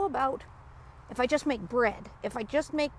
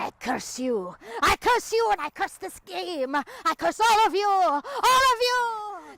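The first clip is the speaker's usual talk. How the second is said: slow, building dramatic curse; laying a curse; 3 semitones higher, slower than usual. Acted. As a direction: hex them all, dragging out the last words. Banned player curses the group.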